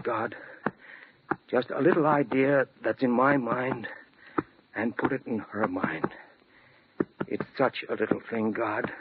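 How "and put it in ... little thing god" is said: fading desperate prayer. Acted. Prayer trailing into despair.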